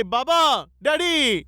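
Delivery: mild imitation of children's cries; lightly acted plea to daddy; children calling out. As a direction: call to father as his children would, only half-shouted. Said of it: "मुलं ओरडत होते".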